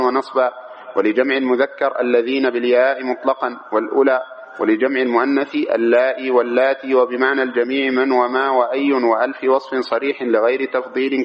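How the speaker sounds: even, monotone recitation of a grammar text; reading a text aloud. Acted. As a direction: read it out steadily, every case ending voiced. (قراءة المتن برتابة مع الإعراب)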